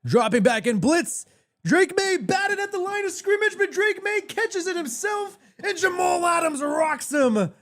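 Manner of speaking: high, shouting play-by-play; excited shouting call. Real, not acted. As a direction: yell the big play as it happens. Live play-by-play, big play.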